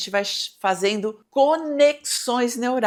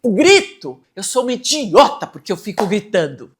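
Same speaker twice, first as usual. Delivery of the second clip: self-blaming cry; 9 dB louder than usual. Retold or imitated. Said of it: "eu falo pra mim".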